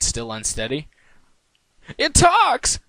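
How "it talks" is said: very high, loud squeal of surprise; astonished exclaim. Acted. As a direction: gasp it out in disbelief. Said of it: "exclaimed at the top of the stairs".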